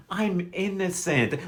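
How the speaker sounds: slow, drawn-out mock innocence; mock innocent. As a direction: stretch it out as a phony plea. Mimics a defendant's drawn-out claim.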